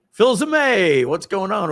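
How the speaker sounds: high, loud "Fils Aimé" greeting; hearty greeting. Retold or imitated. Car dealers greeting Mike by name, loud and high. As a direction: hail him across the showroom. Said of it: "they'll say".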